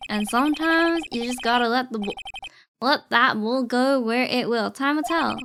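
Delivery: a light Western cowboy voice; cowboy marshal. Acted. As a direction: read it like an easygoing lawman. Reads cowboy marshal lines.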